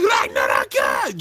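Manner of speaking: drawn-out mock anime attack cry; hammed-up special-move shout; imitated battle yell. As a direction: yell the move name, stretched out. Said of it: "he's just yelling out".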